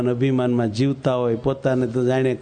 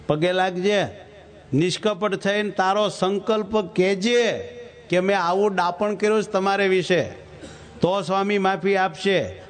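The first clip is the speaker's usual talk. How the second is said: higher-pitched commanding scold; raised stern voice of the Lord giving commands; stern divine rebuke; 4 semitones higher than usual. Acted. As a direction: order him firmly to go apologise. God scolds Shastri in dream.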